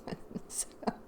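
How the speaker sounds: breathy whisper with a small laugh; a hushed confiding aside. Real, not acted. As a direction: drop to a whisper, softly amused. Aside under her breath, laughing.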